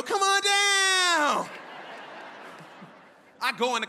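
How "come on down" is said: high, loud, very slow host call; teacher welcoming him like a game show host. Retold or imitated. Hammed-up game show announcer call. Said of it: "Act like it's a game show".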